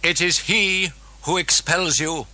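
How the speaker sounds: put-on possessed girl warning the priests; demon voice. A narrator's reading. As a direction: intone a threat.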